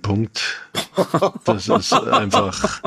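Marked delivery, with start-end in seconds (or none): 1.4-2.8 laughing. Real, not acted. Laughing while judging the film.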